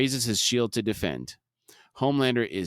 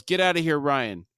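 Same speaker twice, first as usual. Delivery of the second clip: mild retold yell, pitched up; higher-pitched, contained shout; 4 semitones higher than usual. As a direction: raise the voice in an urgent order. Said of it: "Butcher yells".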